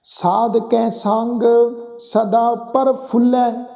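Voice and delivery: drawn-out, measured chant of the verse; slow scripture recitation. Shown as a demonstration. Preacher reciting Gurbani to the congregation, slow and measured. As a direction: intone each word slowly and reverently. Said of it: "verse repeated in recitation".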